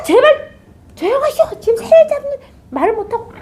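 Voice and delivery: high, hushed, irritated plea; annoyed bird catcher. Acted. Bird catcher hushing the devotee, high and irritated. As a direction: shush him, laughing and annoyed.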